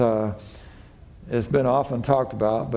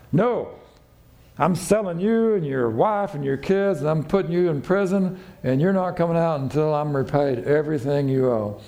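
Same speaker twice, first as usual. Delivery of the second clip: higher, unyielding; harsh refusal; 3 semitones higher than usual. Retold or imitated. Servant refusing debtor's plea, harsh and high. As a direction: slam the door on mercy.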